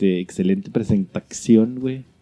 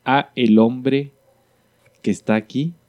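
dramatic announcer; slower than usual. Acted. Slow dramatic guest introduction.

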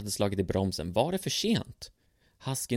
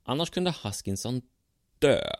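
doctor's warning; 5 semitones higher than usual. Acted. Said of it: "sa doktorn".

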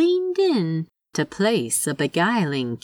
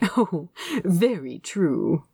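pleased; slower than usual. A narrator's reading.

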